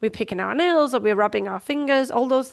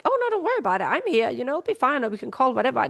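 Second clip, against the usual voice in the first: reassuring nurse; 3 semitones higher, faster than usual. Retold or imitated. Nurse reassuring a nervous colleague, lightly voiced comfort. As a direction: play the kind nurse calming a worried colleague. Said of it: "And they will often say".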